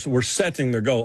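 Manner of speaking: "setting" with a clearly sounded T; careful T in "setting"; accentuated T's. Shown as a demonstration. Trying out the TV version, "setting" with a clear T. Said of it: "we might even accentuate the T's".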